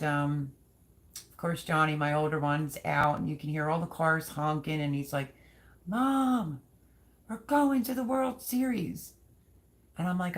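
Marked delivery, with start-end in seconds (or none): 5.9-9.1 excited shout. Retold or imitated. Son on the phone, shouting to mom about the Series, thrilled. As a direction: blurt out the big news, over the moon.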